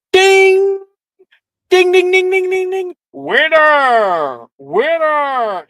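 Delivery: high, loud bell-ringing announcer; loud high barker cry of winner; carnival bell and call. Acted. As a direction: ring it out like a fairground bell.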